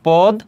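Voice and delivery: পদ alone, closed on the d; syllable shown. Shown as a demonstration. Teacher showing where the word pauses, পদ on its own. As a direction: halt right after পদ. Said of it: "এখানে থেমেছে".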